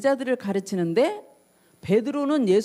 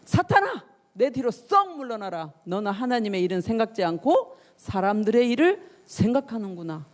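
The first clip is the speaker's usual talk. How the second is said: mock stern reprimand, easing to usual pitch; acted rebuke. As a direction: act out a teacher sternly sending someone away. Voicing Jesus rebuking Peter.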